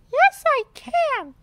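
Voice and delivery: high, loud, slow retort; defiant Rebecca Rabbit. A narrator's reading. Rebecca insists she may hold the ball, high and loud. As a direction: insist stubbornly. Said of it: "says Rebecca".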